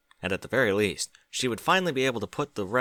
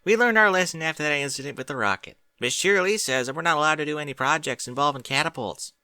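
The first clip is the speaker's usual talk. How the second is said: put-on much higher, louder young filly voice; Apple Bloom voice; 5 semitones higher, 4 dB louder than usual. A narrator's reading. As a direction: pitch it up as an eager young filly.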